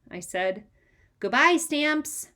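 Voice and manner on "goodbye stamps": slow, high, louder farewell call; child waving off the stamps. A narrator's reading. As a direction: call it out across the room. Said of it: "Fudge called from the doorway".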